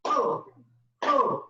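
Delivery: forced, high laughing; laughter yoga laugh. Shown as a demonstration. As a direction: laugh it out on purpose. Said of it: "laughter yoga demo".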